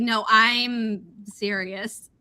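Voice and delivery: slow, drawn-out insistence; earnest insistence. Retold or imitated. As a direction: spell it out slowly, as if pleading to be believed. Acted plea to be believed.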